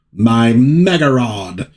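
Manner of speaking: slow, drawn-out lament; mock dismay. Barda finding her weapon gone, slow mock dismay. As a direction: stretch it into a hammed-up wail.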